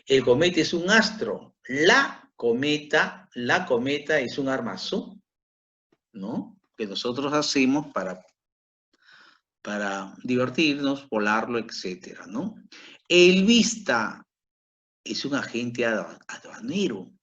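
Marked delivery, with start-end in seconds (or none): 1.7-3.3 slow "La cometa" with weight on "La"; stress on LA. Shown as a demonstration. Teacher contrasts it with el cometa, slow emphatic "La". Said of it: "No es igual decir el cometa". 13.1-14.2 slow "El vista", high and loud on "El"; stress on EL. Shown as a demonstration. Teacher contrasts the article for the class, high emphatic "El vista". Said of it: "No es igual decir".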